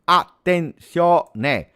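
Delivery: slow, high, drawn-out "Attenzione"; stretched warning. Real, not acted. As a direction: hold the word as danger builds. Dangerous ball in the box.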